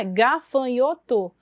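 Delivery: "gafanhoto" in slow, separated syllables, ga-fa-nho-to; "gafanhoto" split into four even beats. Shown as a demonstration. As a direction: sound out "gafanhoto" slowly by syllable. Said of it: "silabando ela".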